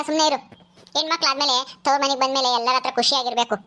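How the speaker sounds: a lightly voiced mother, coaxing and calming; soothing mother. Mother begs Netra to stay and eat, calming. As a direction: settle your upset daughter gently.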